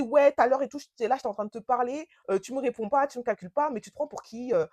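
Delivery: mild mock telling-off; imitated scolding. Boyfriend scolding her at the airport, mildly imitated telling-off. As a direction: nag indignantly, a toned-down retold rant. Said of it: "il commence à me crier dessus".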